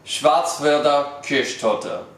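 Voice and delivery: slow, careful German pronunciation of Schwarzwälder Kirschtorte; practised German. Shown as a demonstration. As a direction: say Schwarzwälder Kirschtorte slowly, word by word, with a pause before it. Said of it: "So now I'm here to say".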